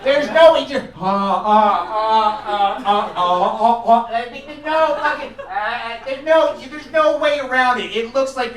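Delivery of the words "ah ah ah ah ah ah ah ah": repeated open-mouthed "ah" sounds; popsicle-sucking noises. Acted. Comic miming how a popsicle gets eaten, mock mouth noises. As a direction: imitate slurping on a popsicle.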